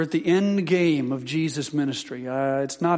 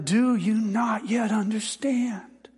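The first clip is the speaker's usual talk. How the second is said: weary whisper; 4 semitones higher, slower than usual. Acted. Jesus's final weary rebuke.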